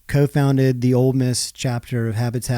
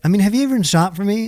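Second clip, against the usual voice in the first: fast, higher mock-accusing question; indignant wife; 9 semitones higher, 4 dB louder, faster than usual. Husband imitating his wife's indignant question. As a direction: fire it at him like the wife. Wife teasing about Christmas shopping.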